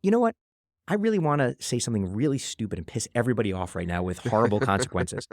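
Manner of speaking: hammed-up troublemaker plotting; mock scheming. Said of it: "walk into a room thinking".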